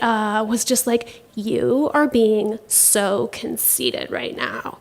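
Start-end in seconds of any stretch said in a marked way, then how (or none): 1.3-4.8 scolding inner voice. Retold or imitated. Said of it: "this voice in my head".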